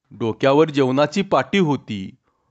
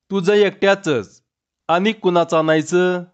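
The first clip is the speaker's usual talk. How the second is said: lightly voiced young wife; 4 semitones higher than usual. Chanda answers Tanya.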